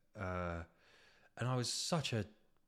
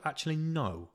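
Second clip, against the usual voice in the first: mock rant; 5 semitones higher, 7 dB louder than usual. Acted rant at London toilet.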